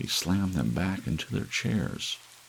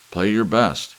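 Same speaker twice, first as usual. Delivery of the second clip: loud, higher command; ordering; 5 semitones higher, 9 dB louder than usual. Acted. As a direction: order the band to play. Emperor orders the musicians.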